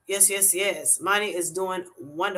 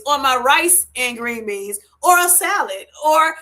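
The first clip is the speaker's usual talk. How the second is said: rising playful excitement; 3 semitones higher, 4 dB louder than usual. Retold or imitated. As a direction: pile up the side dishes, getting giddier each one. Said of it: "I'm like".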